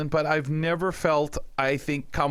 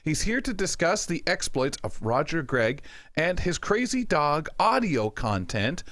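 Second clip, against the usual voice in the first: radio host's segment intro; 3 semitones higher than usual. Real, not acted. Host introducing Michael's Irish audio drama picks, animated presenter delivery. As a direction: tease the segment, stretching out key words.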